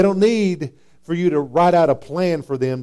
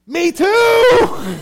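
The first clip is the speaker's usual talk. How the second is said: much higher and louder, cracking with laughter; very high me too; 7 dB louder than usual. Acted. Preacher playing a believer who shares the work struggle, gleeful. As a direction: squeal it out in glee. Mock reply about coworkers' language.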